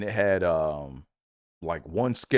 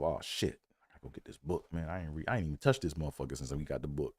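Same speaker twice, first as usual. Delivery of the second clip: inner thought; 5 semitones lower, 9 dB quieter than usual. Retold or imitated. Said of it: "I'm thinking to myself".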